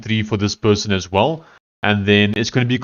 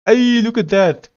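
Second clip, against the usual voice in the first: higher, delighted hey look at that; pleasantly surprised; 11 semitones higher than usual. Real, not acted. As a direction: discover it working, light and thrilled. Sees the feature working.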